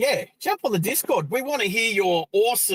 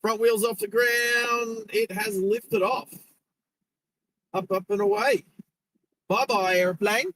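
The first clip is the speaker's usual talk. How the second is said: excited commentary; 2 semitones higher than usual. Real, not acted. Plane takes off, commentary.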